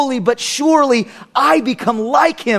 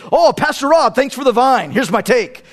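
mock radio caller. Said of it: "I don't talk like that".

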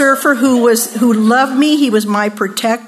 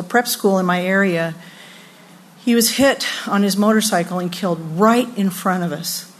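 lower, subdued storytelling; somber; 3 semitones lower, 4 dB quieter than usual. Real, not acted. Speaker recalling a friend killed in front of her, somber. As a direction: let the voice sink with grief.

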